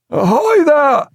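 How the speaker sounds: high, loud but unconvinced hail; half-hearted call. A narrator's reading. Weak Jack calls out to the ship, half-hearted. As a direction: call out without much conviction. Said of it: "he called, but without much conviction".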